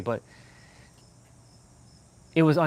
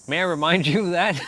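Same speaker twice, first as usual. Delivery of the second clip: laughing tease; 5 semitones higher than usual. Real, not acted. Teasing chat about snow.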